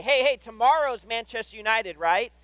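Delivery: lightly acted eager check with Dad; excited kid. Son checking with dad on Friday, excitedly.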